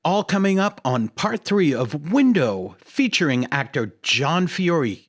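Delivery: polished announcer read with emphatic pitch swings; podcast promo read. Acted. Host plugging next part and Patreon, announcer read. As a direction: sell it like a measured show promo.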